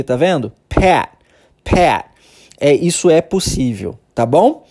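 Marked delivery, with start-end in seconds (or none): 0.7-2.1 pet with the T swallowed. Shown as a demonstration. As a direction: drop the final T of pet. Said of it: "você engole o som do T".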